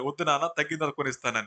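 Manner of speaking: put-on softly coaxing a child; affectionate parent. Parent promising a child ice cream later, affectionately. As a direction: put them off gently, with love. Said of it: "ముందు ప్రేమగా చెప్తారు".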